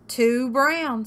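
loud, high squawk; squawking rooster. A narrator's reading. Rooster dismisses Turkey's disguise, high squawk. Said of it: "squawked Rooster".

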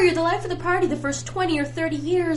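high, loud complaining rant; worked-up complaint; exasperated rant. Acted. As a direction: pour out the grievance. Ranting about eternal life.

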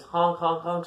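playful honk sounds; clown honks. Pretend. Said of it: "honk like this".

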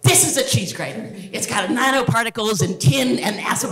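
lightly mocked scientist blurting out details; mild parody of a technical presenter; eager scientist. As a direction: launch straight in, a touch keyed up. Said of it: "what do scientists tend to do? They go".

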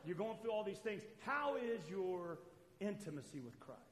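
tender counsel to a struggling brother; gentle question. Retold or imitated. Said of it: "here's what we should do".

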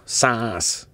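mocking British echo of one word; British dad's accent. British dad mocking his son's accent on sauce, mimicked. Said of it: "He'd go".

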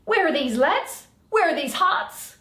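Bottom. Acted. Bottom bursting in calling for his friends, loud. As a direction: call out for the lads loudly.

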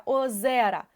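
ОЗЕРА with a clearly stressed middle Е; наголос на Е. Shown as a demonstration. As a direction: lean on the Е in ОЗЕРА. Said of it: "чітко чуємо наголошений е". (ОЗЕРА з чітким наголосом на Е)

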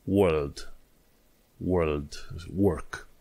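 "world" and "work" with the R sounded; American pronunciation. Shown as a demonstration. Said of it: "asta în formatul american". ("world", "work" cu R pronunțat, americănește)

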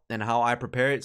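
dry throat, voice breaking; voice crack. Real, not acted. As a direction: voice cracking on the words. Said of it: "Sorry for that little voice crack".

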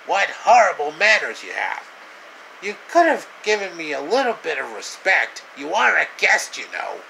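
a touch of prim indignation; indignant scolding. Acted. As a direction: chide the rude guest. Host scolds guest's manners.

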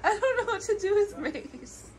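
laughing helplessly. Real, not acted. Laughing after spraying someone with mace.

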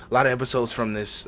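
talking with the hiccups. Real, not acted. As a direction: speak through hiccups. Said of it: "I got the hiccups".

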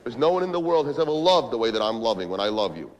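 low, measured vow of love; earnest declaration. Acted. Man convincing girlfriend of the love, earnest and low.

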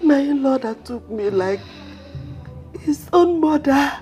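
sobbing lament for her husband; wailing widow. Acted. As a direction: cry out his name in grief. Widow wailing over dead husband.

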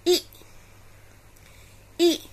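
short i "e, e," as in pin; teacher models short i; short i sound. Shown as a demonstration. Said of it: "I is pronounced as".

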